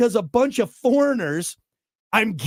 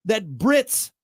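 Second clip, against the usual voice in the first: mock patriotic outrage; 4 semitones higher than usual. Host replaying his rant about Brits being funnier, mock outrage. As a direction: play the offended patriot, hammed-up.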